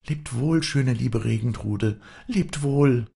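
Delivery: high, lingering farewell call. A narrator's reading. Girl to the Regentrude, calling farewell in high voice. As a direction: call a fond goodbye, pitched high. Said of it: "rief sie".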